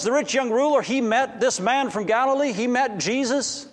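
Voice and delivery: can't believe what he hears, voice lifted; astonished. Acted. Zacchaeus hears surprising news.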